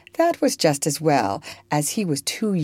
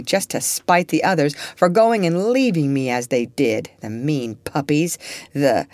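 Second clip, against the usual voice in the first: mildly worked up, the words tumbling; sick man blurting out a secret, a bit excited; getting excited. Acted. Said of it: "getting excited".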